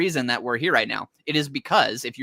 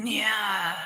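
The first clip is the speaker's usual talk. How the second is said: high-pitched, drawn-out strained "nyah"; mock whisper shout; 9 semitones higher than usual. Showing how the comic character whisper-shouts, high mock strained cry. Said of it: "whisper shouting".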